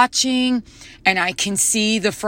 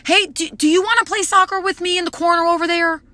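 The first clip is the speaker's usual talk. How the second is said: put-on sweet invite to a child; 8 semitones higher, much faster than usual. Inviting toddler to play.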